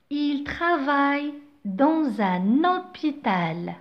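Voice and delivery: "dans un hôpital" said slowly, Z and N linked on; slow, link every word into hôpital; liaison demo. Shown as a demonstration. Teacher reading slowly to show liaison. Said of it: "J'ai fait la liaison".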